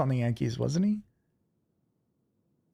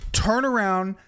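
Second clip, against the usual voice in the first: higher, firm re-enacted command; retold angry order; 5 semitones higher, 3 dB louder, slower than usual. Ordering the mouthy fan away, retold anger. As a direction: order him off, mildly heated. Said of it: "I was so mad".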